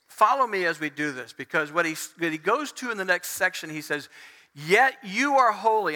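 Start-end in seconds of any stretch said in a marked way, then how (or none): 4.5-5.9 emphatic, slightly raised scripture quote; slow, lifted reverent declaration; misread as praise. Retold or imitated. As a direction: read it like a sudden burst of praise. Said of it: "people tend to read that".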